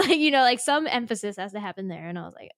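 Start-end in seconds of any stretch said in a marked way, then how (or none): none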